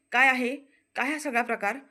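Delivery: loud snapping demand; angry outburst. Acted. Prithvi flinging open the door, angry outburst. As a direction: burst out at the intruders. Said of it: "पृथ्वी चिडतो".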